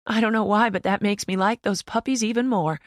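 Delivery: the mother asking, mildly lifted; lightly voiced mother. A narrator's reading. Mother asks her child about the dog, lightly voiced.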